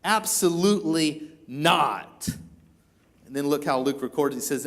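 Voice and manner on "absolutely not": emphatic denial, slowing word by word; acted heated refusal, drawn out at the end; strong denial. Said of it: "he was strong".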